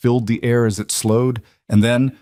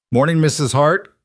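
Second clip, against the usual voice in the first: raised, higher greeting across the street; calling out; 6 semitones higher, 3 dB louder than usual. A narrator's reading. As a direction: call it out to her. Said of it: "called out Jim Bradley".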